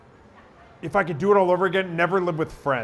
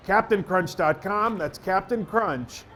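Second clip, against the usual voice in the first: conversational radio spot read; improvised ad read. Shown as a demonstration. Radio guy improvising a cereal spot on request, conversational ad read. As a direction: pitch it like chatting to a listener, slowing on the brand name. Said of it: "see if I can do a minute on it".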